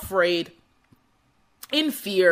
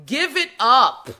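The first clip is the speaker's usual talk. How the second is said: mocking heckler; 5 dB louder than usual. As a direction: heckle the inventor loudly. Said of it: "people didn't say".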